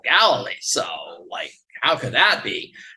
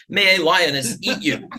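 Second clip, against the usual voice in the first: the line comes out louder, like a slip; mock mispronounced blessing; 5 semitones higher, 6 dB louder than usual. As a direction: punch out "May a lioness eat you". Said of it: "she said to her neighbor".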